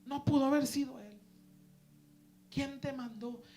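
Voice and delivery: loud high scolding rant; scolding copastor. Retold or imitated. Copastor scolds the young preacher in his office, loud and angry. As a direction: bark it like an angry pastor. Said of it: "me puso una regañada".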